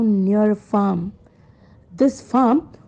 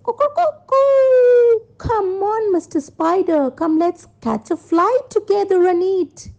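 high-pitched storybook rooster; 10 semitones higher than usual. Acted. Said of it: "The rooster said".

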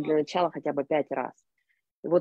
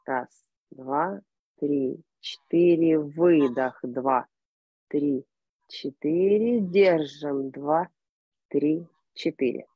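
slow, measured breath counting; much slower than usual. Shown as a demonstration. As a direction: count each breath calmly and evenly. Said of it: "я сначала покажу".

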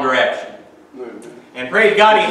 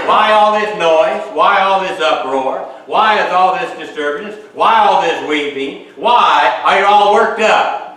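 insistent questioning. Acted. Paraphrases Jesus questioning the mourners.

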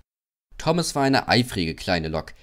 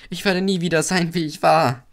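high, louder lament; sad wail; 8 semitones higher, 4 dB louder than usual. A narrator's reading. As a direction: wail that all is ruined. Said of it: "dachte er traurig".

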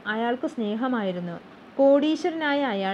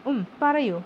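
encouraging Holmes; 2 semitones higher, slower than usual. A narrator's reading. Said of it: "Holmes പ്രോത്സാഹിപ്പിച്ചു".

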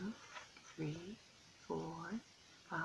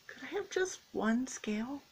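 small pleading fish voice; 5 semitones higher than usual. Acted. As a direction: ask sweetly like a tiny fish. Little Blue Fish asks.

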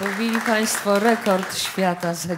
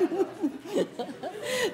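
high laugh; 11 semitones higher, 8 dB quieter than usual. Real, not acted. Host laughs at awkward evening.

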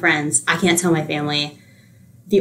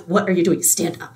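understated cross command, played for the story; retold anger. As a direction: imitate an appalled, angry demand under the breath. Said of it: "you just see her get so angry".

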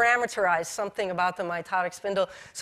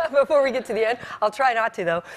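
laughing; 2 semitones higher, 4 dB louder, faster than usual. Real, not acted. Joking about coughing fit.

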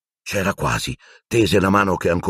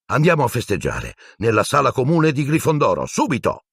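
eager urging; 6 semitones higher than usual. Acted. George urging celebration.

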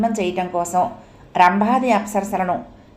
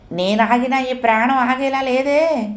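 higher, slow complaining plea; raised voice; 5 semitones higher than usual. Acted. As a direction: raise the voice in distress. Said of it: "కంఠం హెచ్చిస్తూ". (కంఠం పెంచి మొరపెట్టుకోవడం)

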